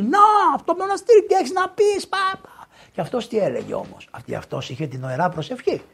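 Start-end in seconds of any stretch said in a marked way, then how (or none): 0.0-2.5 very high-pitched taunting question; mocking challenge. Accuser challenges the priest about the monastery, high mocking taunt. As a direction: throw it at him in a high, strained voice.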